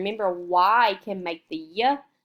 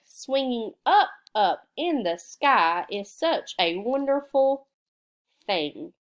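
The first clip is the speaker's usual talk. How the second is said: sing-song read-aloud; 2 semitones higher than usual. Shown as a demonstration. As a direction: try the word in the sentence slowly. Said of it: "fill in the word".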